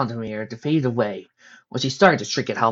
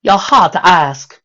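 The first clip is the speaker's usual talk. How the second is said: slow, louder snark; snarky; 5 semitones higher, 9 dB louder, slower than usual. Acted. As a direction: drawl it with sass. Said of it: "Rarity snarked".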